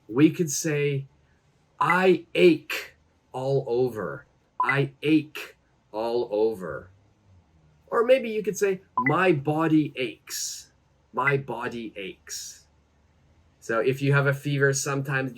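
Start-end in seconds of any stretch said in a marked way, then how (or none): 1.8-6.9 unhurried teaching example with a pause mid-phrase; slow model phrase. Shown as a demonstration. 9.0-12.6 slow, careful example sentence; slow model phrase. Shown as a demonstration. Teacher models phrase for learners.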